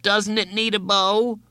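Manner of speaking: put-on high, pleading boy's voice; distressed high question; wailing appeal. Wailing boy appeals to friend.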